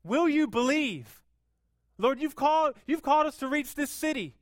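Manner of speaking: loud, high, urgent cry to the Lord; pleading prayer, loud. Retold or imitated. Pastor voicing the church's prayer, a loud high plea. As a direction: call out to God with everything. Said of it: "It says".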